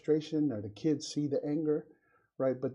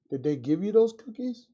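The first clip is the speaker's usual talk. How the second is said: stern parent; 7 semitones higher, 6 dB louder than usual. Retold or imitated. Father questions his son.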